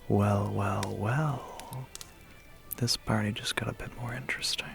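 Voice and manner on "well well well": drawn-out, savoring each word; intrigued gloating. Acted. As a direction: relish the discovery, lifting the last word. Vampire discovers a human.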